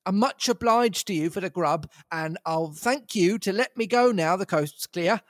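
high, furious tramp voice; flying into a rage. Acted. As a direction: rage then back down. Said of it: "I flew into a rage".

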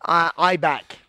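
a light imitation of Anderson Silva's famous line; the returning fighter jokingly quoting a famous comeback line in a light imitation; Anderson Silva impression. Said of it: "You remember that, Anderson Silva?".

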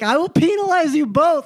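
high-pitched hammed-up New York teacher, PEE-nalize; crazy New York accent. Teacher threatens both friends, crazy New York accent. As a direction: imitate a New York teacher laying down the law. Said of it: "she had this crazy New York accent".

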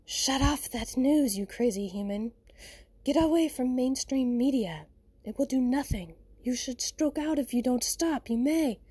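jokingly scolding the human about the news; mock urgent warning. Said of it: "just giving silly advice like that".

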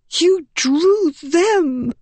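put-on high, very slow bitter boy's voice; a dying boy hissing blame. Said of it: "he hissed".

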